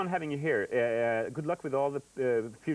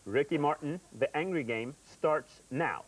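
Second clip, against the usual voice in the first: slow, grave announcer voice; mock serious announcement; slower than usual. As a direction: announce it like a solemn referee. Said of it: "Get serious".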